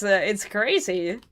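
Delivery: ordinary delivery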